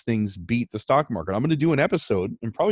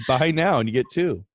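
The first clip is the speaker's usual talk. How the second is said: infomercial voice; 4 semitones higher than usual. Pretend. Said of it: "begin to sound like an infomercial".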